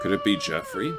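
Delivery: a hopeful squeal of a question; squeaky high question. Real, not acted. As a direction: jump way up in pitch, squeaking the question. Hopeful question about the howl.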